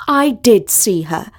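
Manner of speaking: "did" stressed in insistence; emphatic "did", standing your ground; insistent. A narrator's reading. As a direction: insist firmly, leaning on "did". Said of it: "insisted Talia".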